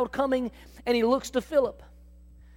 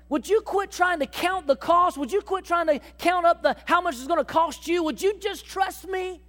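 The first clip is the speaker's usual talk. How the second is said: gentle rebuke; 6 semitones higher than usual. Acted. God tells the worried believer to stop counting cost, coaxing. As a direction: coax a worrier to just trust.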